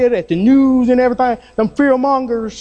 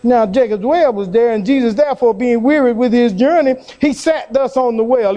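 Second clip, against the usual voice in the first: scripture reading. Acted. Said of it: "repeats scripture reading".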